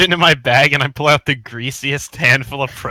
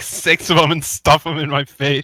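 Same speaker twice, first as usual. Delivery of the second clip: mouth full; 3 semitones higher than usual. Acted. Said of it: "my mouth is still full".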